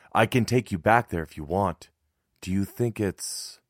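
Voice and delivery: lightly voiced, firm older man; a hint of stern resistance leader; gruff neighbour voice.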